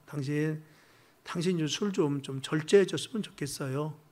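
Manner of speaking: soft, caring appeal to the husband; gentle plea. Retold or imitated. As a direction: plead softly out of worry. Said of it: "내 감정을 표현해주는 것이".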